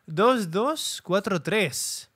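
very slow, digit by digit; slow careful code readout; reading out the code. Real, not acted. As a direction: spell out each number slowly to memorize it. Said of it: "hay que recordarlo".

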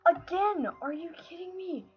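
high-pitched, exasperated protest; exasperated disbelief. Real, not acted. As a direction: plead in high-voiced disbelief. Fails again at the same part.

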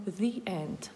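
"the end" said as thee end; thee before vowel. Shown as a demonstration. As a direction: model "the end" with a clear ee. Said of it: "Тобто ми говоримо". («the end» як «зі енд»)

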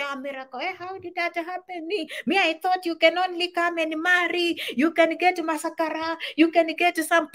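high, astonished gossip voice; mock amazed friend. Old friends marvel at Miracle's approval, mock surprised. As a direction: act stunned at the change of status.

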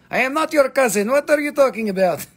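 high, indignant put-on voice; mock offended voice. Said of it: "Your response was El Primo".

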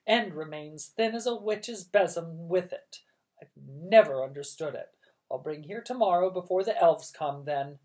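bossy aunt. Acted.

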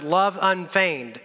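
"Love unfeigned" drawn out slowly, each word weighed; slow and deliberate. Shown as a demonstration. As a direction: linger on "Love unfeigned" so it sinks in. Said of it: "so easy to read a word like this and get past it".

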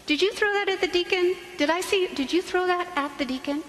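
hammed-up exasperated parent; scolding parent. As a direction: catch the kid red-handed, indignant. Parent scolds kid at Mass.

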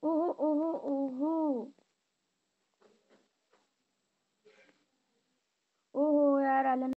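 triumphant whooping. Real, not acted. Winning the match.

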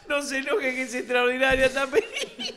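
high voice, dissolving into laughter; retold placating plea. Toscano placating the old man, laughing imitation. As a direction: imitate soothing someone while cracking up.

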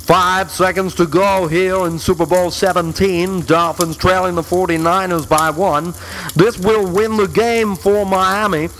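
play-by-play announcer, building to despair; sports announcer. Pretend. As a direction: call the game, then groan at the miss. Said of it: "like an announcer's voice".

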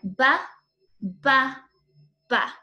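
"ba" popped short, three times; letter sound b. Shown as a demonstration. Teacher sounding out the bear letter sound. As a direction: bounce out "ba" like a bear step. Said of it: "Bubba bear".

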